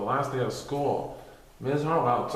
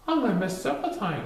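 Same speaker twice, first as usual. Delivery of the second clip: teacher voice; 8 semitones higher than usual. Acted. Teacher voiced in read story.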